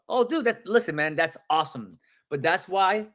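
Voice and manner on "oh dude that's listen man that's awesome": excited. Shown as a demonstration. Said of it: "Have that mentality of".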